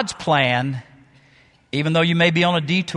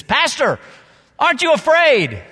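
much higher, louder, fearful plea; frightened woman; 11 semitones higher, 4 dB louder than usual. Retold or imitated. Nervous passenger asks her pastor mid-turbulence, high and scared. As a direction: squeak it out like a white-knuckle flyer.

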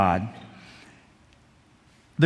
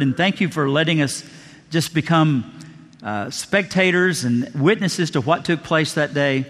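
closing prayer; 2 semitones lower than usual. Real, not acted.

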